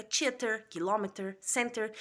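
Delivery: rhotic American English, r sounded in "theater"; teacher demos "center" with a clear final r; American accent. Shown as a demonstration. Teaching students, American-accent "theater". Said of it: "os americanos utilizam o T E R".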